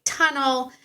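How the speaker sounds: high, drawn-out cue to a dog; agility command. Retold or imitated. Handler cueing her dog into the tunnel, high command. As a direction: call it out as a high-pitched command.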